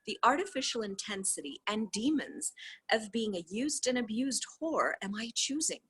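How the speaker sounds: steady, even reading of a dialogue; reading a transcript aloud. Acted. Reader reads the call transcript to viewers, steady reading voice. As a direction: read the call text out, voicing both sides lightly.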